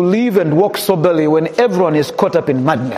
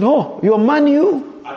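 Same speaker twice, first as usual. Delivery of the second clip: slow, drawn-out mock disbelief; mock surprise; 6 semitones higher, much slower than usual. Father teasing his son about his football team, slow mock surprise. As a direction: stretch it out in exaggerated amazement.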